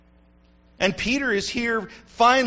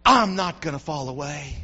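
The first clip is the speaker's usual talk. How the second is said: bold vow; 7 dB louder than usual. Acted. Peter's bold vow retold.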